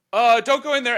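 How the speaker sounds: high, loud panicked squeak; mock panicked warning. Sister warns him as mom comes in, high panicked blurt.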